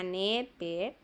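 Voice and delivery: "never" slow, with short E sounds; short-vowel demo. Shown as a demonstration. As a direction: sound out "never" slowly by syllable. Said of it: "esos son sonidos cortos". ("never" despacio, con las E cortas)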